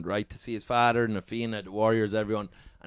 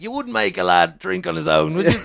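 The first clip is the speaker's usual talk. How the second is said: mock indignant; 5 semitones higher, 7 dB louder than usual. The speaker scolding his absent pals.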